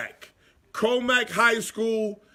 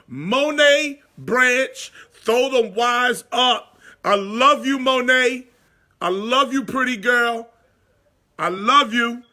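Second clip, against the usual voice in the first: higher, louder affectionate call-out; loving shout-out; 5 semitones higher, 5 dB louder than usual. Real, not acted. Uncle sends love to his niece on air, loud and happy. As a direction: beam it out to your niece.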